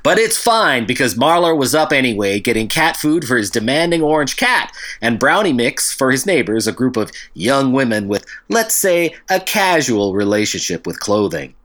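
lightly voiced hardboiled private eye; noir detective voice.

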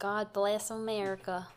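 slow mock-Southern patriot drawl; Southern accent. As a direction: stretch it out in a Southern twang.

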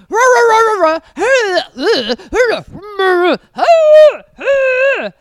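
loud, high wordless squabbling "rah rah"; hammed-up growly roar of arguing; imitated bickering noise. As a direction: mimic a fight as loud nonsense yelling.

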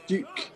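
duke said high instead of dick; wrong try. Pretend. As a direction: stretch toward dick but say duke. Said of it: "D-, d".

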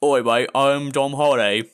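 imitating an Aussie bloke introducing himself, slowly; mock Australian. Mocking Australians by imitating their accent. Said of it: "And then you hear".

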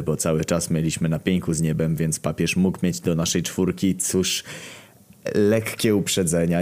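usual speaking voice

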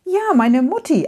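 lightly acted happy old man; smiling answer. A narrator's reading. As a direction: answer with a fond smile. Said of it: "antwortet Herr Uralt lächelnd".

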